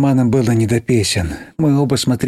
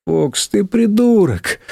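slow, high angry cry; tearful outburst; 8 semitones higher, much slower than usual. Acted. Girl near tears lashes out at Fox, slow. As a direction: fling the insult near tears.

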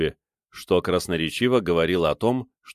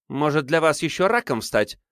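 spat out angrily; 7 semitones higher than usual. A narrator's reading. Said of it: "злобно выплюнула Елена Сидорова".

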